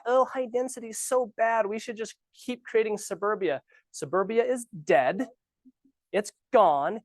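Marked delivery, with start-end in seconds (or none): 0.0-3.6 higher, mocking whine of the neighbors; mocking NIMBY voice. Realtor mocking the city council's anti-density talk, in a higher sneering voice. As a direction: parody the not-in-my-backyard crowd. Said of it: "The whole, like".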